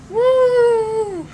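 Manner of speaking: high loud whoop; excited cheer. Real, not acted. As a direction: shout it out in celebration. Celebrating herself.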